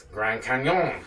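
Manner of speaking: slow, hammed-up French accent; mock French accent. Shown as a demonstration. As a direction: stretch it out in fake French. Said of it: "In French, that's".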